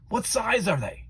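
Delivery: high, bright grandmother voice; grandma cheering on her grandson, high and pleased; Grandma's voice. Acted. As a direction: play a delighted grandma.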